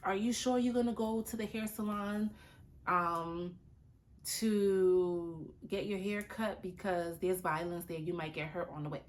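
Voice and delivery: mock a fretful friend; imitating an anxious worrier; fearful warning. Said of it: "Don't say".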